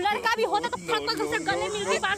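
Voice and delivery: a hint of a pleading flirt. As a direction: coax her to calm down, playful.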